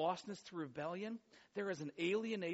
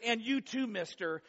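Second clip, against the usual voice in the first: mild scolding mom; 4 semitones higher than usual. Retold or imitated. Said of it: "So this is kind of this".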